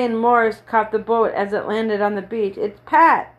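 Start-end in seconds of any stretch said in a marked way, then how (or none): 2.6-3.3 frightened. A narrator's reading. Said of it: "in a frightened voice".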